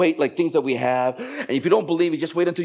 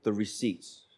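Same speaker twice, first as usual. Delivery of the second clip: slow, deliberate instruction; wife's instruction; much slower than usual. Retold or imitated. Wife instructing husband, slow and deliberate. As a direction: spell it out slowly, imitating wife. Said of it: "I remember she said".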